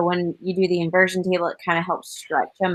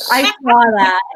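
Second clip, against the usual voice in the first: talking through hiccups; hiccup-broken words; 7 dB louder than usual. Real, not acted. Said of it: "Sorry, I keep hiccuping".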